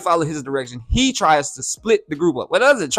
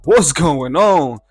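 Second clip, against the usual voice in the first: surprised; 5 dB louder, much slower than usual. Retold or imitated. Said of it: "I'm like".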